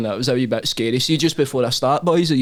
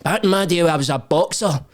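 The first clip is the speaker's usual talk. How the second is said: imitating boxer; 3 semitones higher than usual. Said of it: "he started going like that".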